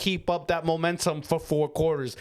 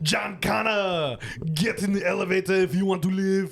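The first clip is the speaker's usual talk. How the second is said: Terminator line. Retold or imitated. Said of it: "Terminator two".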